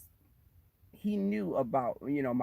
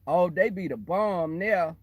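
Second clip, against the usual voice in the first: lightly mocked, slow Ebonics; put-on Ebonics, drawn out; 4 dB louder, slower than usual. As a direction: stretch it out in imitated Ebonics. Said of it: "you slipped into Ebonics".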